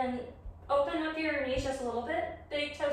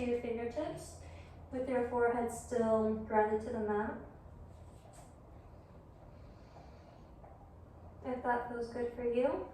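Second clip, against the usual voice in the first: yoga guidance; 6 dB quieter than usual. Real, not acted. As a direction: guide them gently through the pose, leaving room to breathe. Leads yoga practice.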